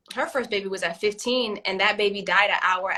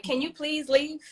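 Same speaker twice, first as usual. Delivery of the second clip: polite, higher-pitched request with a rise; saying it nice; 4 semitones higher than usual. Acted. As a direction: ask nicely, as a patient parent. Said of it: "I'm gonna say it nice".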